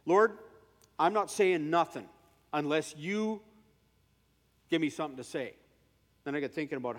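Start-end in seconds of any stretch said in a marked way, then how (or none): 0.0-5.5 loud pleading call to the Lord; earnest prayer cry. Retold or imitated. Scene: preacher retelling his prayer to God, loud plea. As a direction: cry out to God, then settle.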